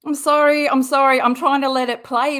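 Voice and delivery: loud, blurted sorry; exasperated loud sorry; loud apology. Real, not acted. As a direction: burst in over the clip. Host interrupting the clip again.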